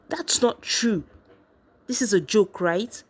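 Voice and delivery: high-pitched disbelieving protest; voice rising high. A narrator's reading. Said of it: "Her voice went up an octave".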